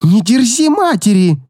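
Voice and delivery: mother shrieks at her daughter; shrieking mother. A narrator's reading. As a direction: screech it like an outraged mother. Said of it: "взвизгнула женщина".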